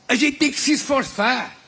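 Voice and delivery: ordinary talk, nothing marked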